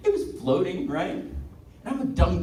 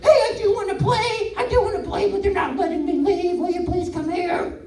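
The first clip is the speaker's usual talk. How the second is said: playful dog; 8 semitones higher than usual. Pretend. Balcony dog begging a friend to play, high then fading. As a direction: plead to come and play, trailing off. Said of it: "the dog's probably just like".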